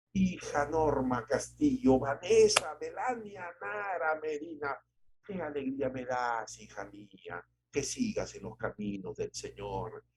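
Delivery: tender blessing. Retold or imitated. Parent blessing the daughters.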